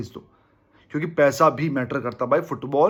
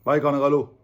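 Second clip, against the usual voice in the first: "भाई खाना खा लो" said flat and dutiful; offhand; 3 semitones lower than usual. Shown as a demonstration. Just saying the words to a friend, offhand and unfeeling. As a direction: toss off "भाई खाना खा लो" without real feeling. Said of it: "अलग feel है".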